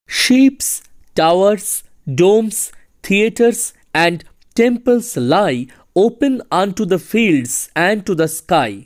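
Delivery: slow, measured verse reading; poem recitation. Acted. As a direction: recite it slowly, pausing between the images.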